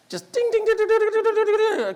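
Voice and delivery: high, sing-song arcade dings; dinging bells. Retold or imitated. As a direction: ring like a slot machine. Imitating arcade machine bells.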